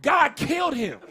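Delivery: normal talking voice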